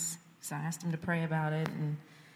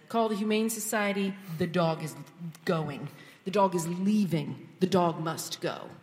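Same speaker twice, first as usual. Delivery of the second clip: retold no-nonsense order to husband; firm demand. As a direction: lay down the law about the dog. Ordering husband to remove dog.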